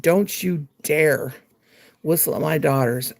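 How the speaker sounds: slow, emphatic imitation of an angry dad; mad dad. Dad warning boys off his daughters, mildly imitated anger. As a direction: retell a father's warning, drawing out "don't you dare". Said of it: "oh, he was mad".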